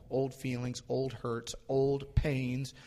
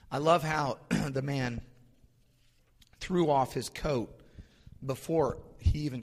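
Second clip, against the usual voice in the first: real preacher's excitement, louder; a little excited; 3 semitones higher, 5 dB louder than usual. Real, not acted. Preacher relishing the man throwing off his coat, excited. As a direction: get carried away, punching out the phrases. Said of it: "Got a little excited there".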